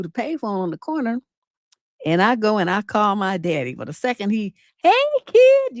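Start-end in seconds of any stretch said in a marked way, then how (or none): 4.8-5.8 bright, much higher cheery hello; cheery greeting. Retold or imitated. Dad answering the payphone, all cheery. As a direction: chirp it like a happy dad picking up. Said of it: "all cheery and shit".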